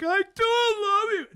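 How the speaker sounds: high strained slow cry; strained reassurance. Retold or imitated. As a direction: force the words out in a panic. Tripping teen reassures brother.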